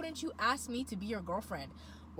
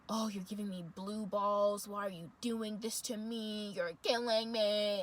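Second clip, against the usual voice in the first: whiny guy mock; slower than usual. Mocking the guy's whining.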